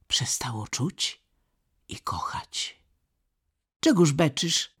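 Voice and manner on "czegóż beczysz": louder, gruff and dismissive; rude snap. A narrator's reading. Kai rudely asking crying Gerda why she's bawling. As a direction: brush her off rudely. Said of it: "zapytał opryskliwie".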